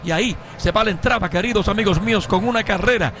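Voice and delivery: excited radio play-by-play. Real, not acted. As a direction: call the fly ball to the wall.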